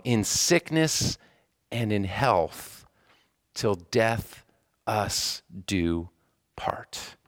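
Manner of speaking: slow, measured recital with pauses; solemn vows. Retold or imitated. Chaplain reciting marriage vows to patients, solemn and slow.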